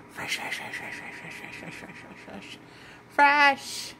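unvoiced whisper fading away. Whispering to the kitten, trailing off.

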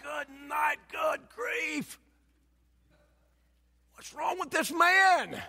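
high-pitched, incredulous exclamation; mock astonishment. Preacher reacting to the yelling old man, high mock disbelief. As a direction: react aghast, pitched well up, stretching the last question.

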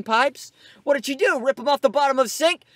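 incredulous. Real, not acted. Incredulous high reaction.

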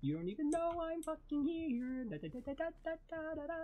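high soft sneaky voice; sneaky sing-song. Real, not acted. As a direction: creep along softly humming.

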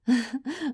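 short excited giggle. Acted. Partner after revealing the costume, excited giggle. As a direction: giggle with delight.

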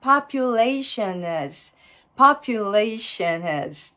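population has slowed down, the n sliding into "əz"; linked n. Shown as a demonstration. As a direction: join population and has with no h between, slowly. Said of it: "populationのNの音とちょっとつながっていく". (populationのnとhasをゆっくりつなげて)

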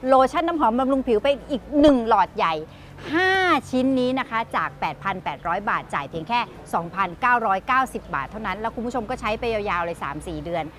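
เสียงพิธีกรขายของ เร่งเร้าให้โทรสั่ง; ประกาศโปรโมชั่นแบบพิธีกรช็อปปิ้ง; ขายของทางทีวี. Acted. Host pitches the product offer. (พิธีกรบอกผู้ชมให้โทรมาตอนนี้ ด้วยเสียงขายของ)

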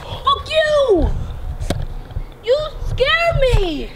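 drawn-out, aggrieved accusation; upset outburst. Real, not acted. Scared one blames the prankster, upset outburst. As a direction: fling the blame back, stretching the words. Quarrel after being scared.

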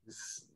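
"z" as a soft, buzzing z hum; a long voiced "z" hum; z sound. Shown as a demonstration. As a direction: buzz the "z" quietly through the teeth. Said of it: "Còn phát âm thành âm z".

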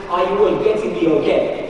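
put-on light Zambian English accent; a touch of put-on Zambian lilt; pseudo-Zambian accent. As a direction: check the class follows, in a mild Zambian accent. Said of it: "say in my pseudo-Zambian accent".

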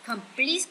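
comPLETE, second syllable stressed. Shown as a demonstration. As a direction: lean on PLETE in Complete. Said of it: "cũng là nhấn âm hai". (nhấn âm hai: comPLETE)

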